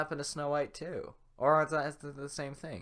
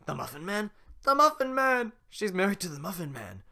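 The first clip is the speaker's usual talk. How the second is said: gingerbread man voice; 6 semitones higher, 6 dB louder than usual. Acted. Gingerbread man and Farquaad exchange.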